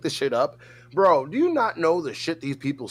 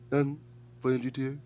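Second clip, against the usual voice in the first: slightly softer, laid-back mimicry; imitating chill friend; 2 semitones lower, 7 dB quieter, faster than usual. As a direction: toss it off like a bored gamer, a bit softer. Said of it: "this is how he sounds".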